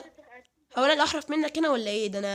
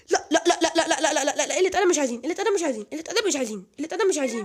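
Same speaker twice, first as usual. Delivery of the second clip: laughing protest; 4 semitones higher, 4 dB louder, faster than usual. Real, not acted. Protesting being hit in game.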